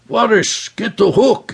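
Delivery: high clipped order to crewman; sharp command. Acted. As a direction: give the order with urgency. Leader giving sharp order.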